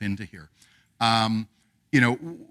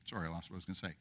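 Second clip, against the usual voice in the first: trailing off; 5 semitones lower, 18 dB quieter, much faster than usual. Real, not acted. Speaker loses thread again.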